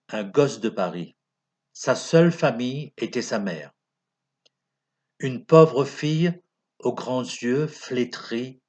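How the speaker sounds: measured, declaimed sentimental verse; lightly theatrical poem reading; poem recitation. Acted. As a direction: recite it line by line, with pauses.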